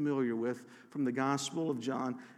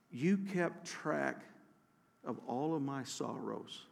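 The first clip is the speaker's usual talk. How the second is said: tender reading; 6 dB quieter, slower than usual. Acted. Reading comforting psalm verse.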